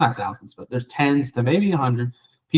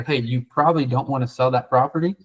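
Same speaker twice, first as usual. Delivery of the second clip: going negative. Shown as a demonstration. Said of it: "Versus Noah's coming in there".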